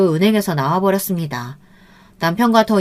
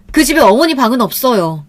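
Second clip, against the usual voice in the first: louder, higher, hard-stressed "없어요"; forceful emphasis; 4 semitones higher, 6 dB louder than usual. A narrator's reading. Daughter-in-law refusing mother-in-law a room, forceful. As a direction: put full force into "그 집에 어머니 방은 없어요". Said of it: "없다는 말에 힘을 빡 주고 말했습니다".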